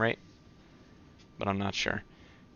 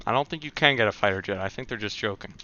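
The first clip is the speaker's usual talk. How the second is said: talking with a mouthful of banana bread; chewing while talking; mouth full. Real, not acted. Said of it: "talking with the mouthful".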